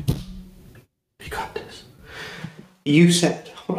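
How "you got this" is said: slow, breathy whisper to yourself. Real, not acted. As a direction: quietly psych yourself up, drawn out. Whispered encouragement to himself.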